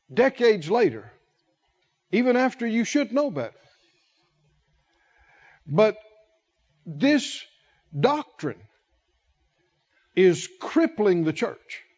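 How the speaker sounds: usual speaking voice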